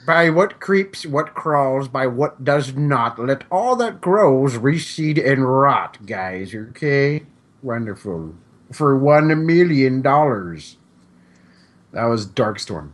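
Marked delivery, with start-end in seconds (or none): 0.0-10.8 slow, deliberate villain voice; Doctor Evil. Retold or imitated. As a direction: intone it like a smug supervillain. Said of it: "perfect one for Doctor Evil".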